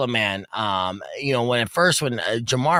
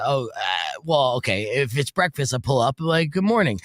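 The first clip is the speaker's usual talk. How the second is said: mock Mexican accent. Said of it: "say it with a little bit of accent".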